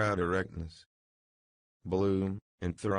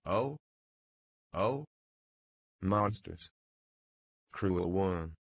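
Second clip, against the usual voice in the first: goaded cries; slower than usual. A narrator's reading. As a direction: cry out as if smothered and goaded. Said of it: "goaded, buttock smothered".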